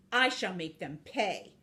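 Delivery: restrained menacing vow; villainous vow. Acted. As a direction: state the threat with measured resolve. Villain vows revenge, first take.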